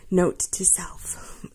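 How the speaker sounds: unvoiced whisper to herself; whispered aside. Real, not acted. Whispering a note to herself about the dogs.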